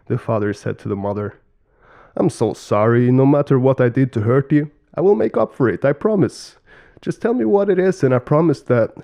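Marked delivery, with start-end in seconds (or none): 2.2-8.9 pleading, pitch lifting on the promises; earnest apology. Acted. Father begging mother's forgiveness, earnest and pleading. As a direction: apologize eagerly, voice rising.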